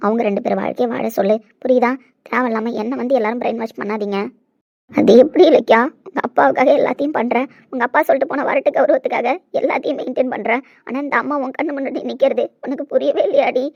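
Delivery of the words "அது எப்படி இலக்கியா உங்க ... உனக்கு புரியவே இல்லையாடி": strained crying plea, loud at the start; tearful reproach. Acted. Mother weeping before her unmoved daughter, pleading in reproach. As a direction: reproach her through tears. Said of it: "இப்படி அழுகிறது உனக்கு வலிக்கவே இல்லையாடி".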